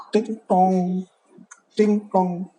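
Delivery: drawn-out "ting tong" like a bell; doorbell chime. Retold or imitated. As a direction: sing out a doorbell ding-dong. Doorbell imitated in storytelling.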